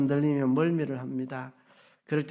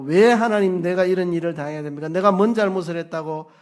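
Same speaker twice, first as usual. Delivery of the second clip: louder, indignant protest cried up to God; complaining to God; 2 semitones higher, 6 dB louder, faster than usual. Retold or imitated. Preacher voicing David complaining to God about his betrayal, louder and indignant. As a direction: voice David's bitter why-me complaint. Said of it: "하나님께 원망하고".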